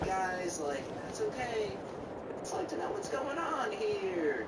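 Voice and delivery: drawn-out, sing-song everything-is-awesome teacher voice; falsely cheerful teacher checking in; fake happy teacher. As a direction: put on fake classroom cheer, stretching the phrases. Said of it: "fake happy, fake everything is awesome teacher voice".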